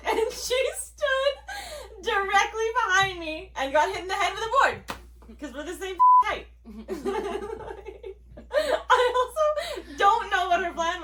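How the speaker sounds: breaking up while telling the story; laughing. Real, not acted. Sister tells how the board hit Rebecca, laughing.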